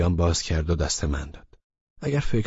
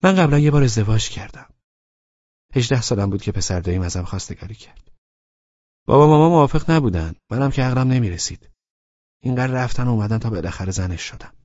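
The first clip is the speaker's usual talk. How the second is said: higher woman's voice, confessing her past; Laleh confiding; 5 semitones higher, 5 dB louder than usual. A narrator's reading. Laleh confiding her first marriage to Abbas, higher and candid. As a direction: open up about the first marriage. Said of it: "گفت".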